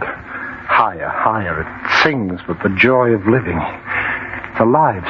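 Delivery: softly marvel, lost in the fire; entranced. Acted. Man shows his friend the flames, softly entranced.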